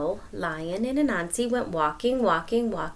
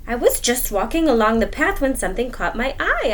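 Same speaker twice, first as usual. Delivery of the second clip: louder, higher spider voice; puzzled spider; 4 semitones higher, 6 dB louder than usual. Acted. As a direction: retell it as a puzzled Anansi. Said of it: "Anansi recounting".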